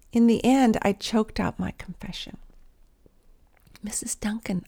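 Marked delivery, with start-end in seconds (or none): 3.8-4.6 soft unvoiced whisper. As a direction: whisper her name. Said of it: "I whispered".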